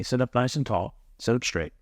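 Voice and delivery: quiet calm instruction; soft guiding cue. Shown as a demonstration. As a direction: guide them gently, softly. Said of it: "I want you to do this with me".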